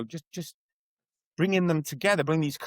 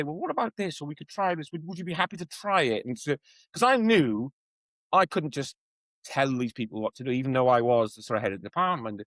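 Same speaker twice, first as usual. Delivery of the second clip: diplomatic suggestion. Retold or imitated. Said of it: "like a diplomat".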